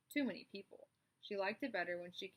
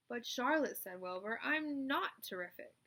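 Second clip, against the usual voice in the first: higher, slow humble protest; shy pig protesting; modest pig; 3 semitones higher, 4 dB louder than usual. Acted. Wilbur tells Charlotte he isn't terrific, humble.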